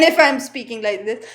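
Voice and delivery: sample voice with a firmer onset; voice modulation demo, changed take. Shown as a demonstration. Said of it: "there is a change in the voice".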